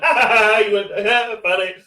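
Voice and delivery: high, loud ha-ha of laughing friends; imitated mocking laughter. Comic imitating friends who came along laughing, mock laughter. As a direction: mimic mates cackling at you.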